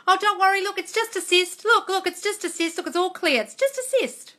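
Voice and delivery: a vet gushing good news to calm her; bright relieved vet. Retold or imitated. Vet showing owner the fluid, high and joyful.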